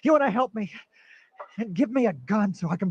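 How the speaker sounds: patient mocking the doctor's offer; bitter outburst. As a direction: throw the offer back in his face. Patient repeats line, escalates.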